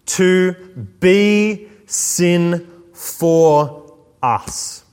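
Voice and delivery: very slow, each word of the verse weighed; slow scripture reading. Shown as a demonstration. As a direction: read the verse out slowly and solemnly. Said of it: "Now, did you catch that?".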